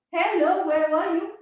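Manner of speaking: loud, sharp demand; sharp scolding. Shown as a demonstration. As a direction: call out the latecomer sharply. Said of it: "how my last sentence scared her".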